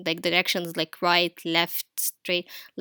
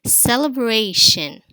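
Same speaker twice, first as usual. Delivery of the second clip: "Celebration" stretched slowly and loudly through each syllable; slow sounding out; 4 semitones higher, 5 dB louder, slower than usual. Shown as a demonstration. Teacher presenting a new word, slowly sounded out. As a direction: draw out "Celebration" for learners. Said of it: "done with the final syllable shin".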